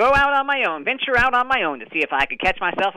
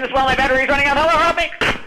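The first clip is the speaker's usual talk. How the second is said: calling for help; 6 semitones higher than usual. Acted. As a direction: shout up for help, desperate. Stuck in well, calling for help.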